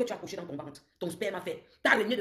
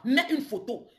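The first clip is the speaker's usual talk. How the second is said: slow mocking dare; 7 semitones higher, 6 dB louder, slower than usual. Real, not acted. Taunting rival on a live.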